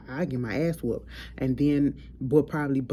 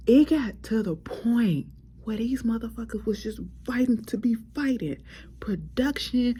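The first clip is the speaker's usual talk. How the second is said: hushed aside; 8 semitones higher than usual. Real, not acted. Whispered aside on fighting crew.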